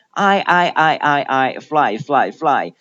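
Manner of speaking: "fly" with a fully opened "eye" vowel; drilling "I, fly" with a wide diphthong. Shown as a demonstration. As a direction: open the mouth fully for the I in "fly". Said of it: "要把嘴巴张开做到位".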